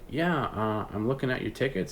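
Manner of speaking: lightly disguise yourself as a new customer; lightly disguised voice. Retold or imitated. Buyer calling the scammer back, in a lightly disguised voice. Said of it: "just did a different voice".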